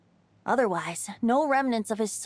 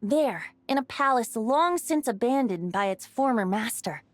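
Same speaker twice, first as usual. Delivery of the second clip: story narration. Acted. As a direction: spin the tale like a bard by the fire. Bard tells the legend.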